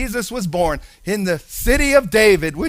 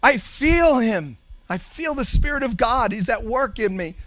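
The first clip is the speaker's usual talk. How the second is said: lightly voiced, earnest and rising; Mary's inner thoughts; 5 semitones higher than usual. Preacher voicing Mary, anxious then sure. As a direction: pour out her worry then her faith.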